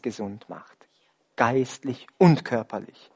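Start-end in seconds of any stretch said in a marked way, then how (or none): 0.0-0.8 hushed whisper, almost no voice. Real, not acted. Preacher whispering Bartimäus's realisation to the church. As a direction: lean in and whisper it to the congregation.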